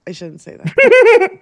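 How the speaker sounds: high, loud, laughing retraction. Real, not acted. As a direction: say it through a burst of laughter. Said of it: "repeats it laughing".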